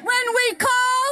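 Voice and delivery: shouted call for the crowd; rally speech. Real, not acted. Leads crowd call and response.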